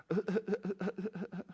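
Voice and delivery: quiet, stuttered wordless noises; nervous stammer. Retold or imitated. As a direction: stammer without getting a word out. Imitates nervous reply to question.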